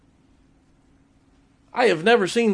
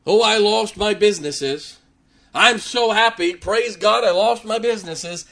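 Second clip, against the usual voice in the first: lightly mocking, higher, cheery praise; mock happy praise; 4 semitones higher than usual. Preacher mocking a giddy believer who praises his losses. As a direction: ham up a giddy praise-God voice. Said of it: "Job wasn't going".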